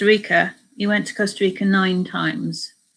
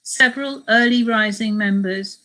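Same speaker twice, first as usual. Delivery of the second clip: measured travel memoir reading; story narration. A narrator's reading. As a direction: read the account aloud to listeners. Reads a book extract aloud.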